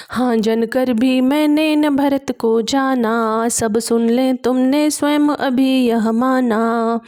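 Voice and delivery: measured recital of classical verse; poem recitation. A narrator's reading. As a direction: declaim each verse line with gravity. Recites verse between explanations. (गंभीर काव्य पाठ)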